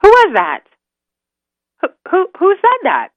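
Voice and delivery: high, loud startled questioning; stammered high-pitched alarm; startled wolf. Acted. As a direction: demand who spoke, voice jumping up.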